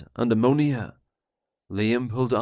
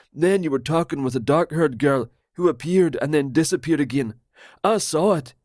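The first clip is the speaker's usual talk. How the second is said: higher, louder, fast conspiracy rant; paranoid Roger; 4 semitones higher, 3 dB louder, faster than usual. Acted. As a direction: blurt it out like a betrayed friend.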